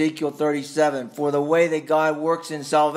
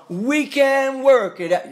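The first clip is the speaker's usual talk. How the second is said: mock Hagar voice; 11 semitones higher, 5 dB louder, slower than usual. Voicing Hagar's self-reliant plan.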